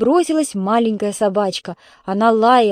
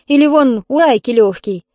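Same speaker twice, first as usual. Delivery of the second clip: louder, higher retort; indignant; 4 semitones higher, 6 dB louder than usual. A narrator's reading. Neighbour cites another's hard work, indignant. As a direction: press the indignant point. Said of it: "возмутилась Ольга Петровна".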